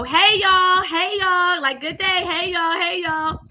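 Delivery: breezy hi to each room; cheery greeting. Retold or imitated. Girl greeting each church room, lightly sing-song. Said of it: "and I would go".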